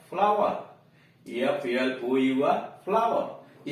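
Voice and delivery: 'फ्लावर' with aa, not a; pronunciation demo. Shown as a demonstration. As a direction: model 'फ्लावर' twice. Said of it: "उसका उच्चारण अ नहीं हो रहा है". ('फ्लावर' का उच्चारण)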